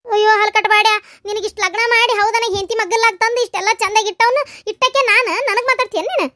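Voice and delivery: loud, high furious scolding; angry scolding. Acted. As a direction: shout him down in outrage. Mother scolds son who insults her. (ಜೋರಾಗಿ ಬೈಯುವ ಸಿಟ್ಟಿನ ಧ್ವನಿ)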